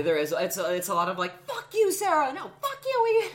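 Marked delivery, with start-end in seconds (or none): 1.5-3.3 high, loud playful yelling of insults; mock loving insult exchange. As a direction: hurl the insults with affection, way up high. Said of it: "in the most loving way".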